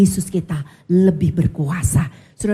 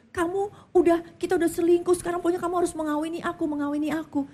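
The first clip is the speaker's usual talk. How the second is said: demanding mistress; 9 semitones higher, faster than usual. Retold or imitated. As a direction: push him to marry you, rising and insistent. (wanita simpanan yang menuntut dengan suara tinggi)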